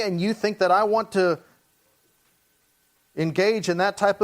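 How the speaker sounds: remonstrate firmly with a married woman; earnest, slightly heightened acted reproof; reminding her. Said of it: "He's reminding her".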